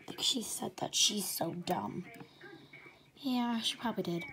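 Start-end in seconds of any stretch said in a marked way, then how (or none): 0.1-2.0 unvoiced, softer whisper; whispered mishearing. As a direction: mishear it back in a hush.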